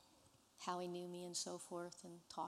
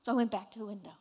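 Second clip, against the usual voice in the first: crying while speaking; 2 semitones higher, 8 dB louder than usual. Real, not acted. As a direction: push through the sobs. And I was crying.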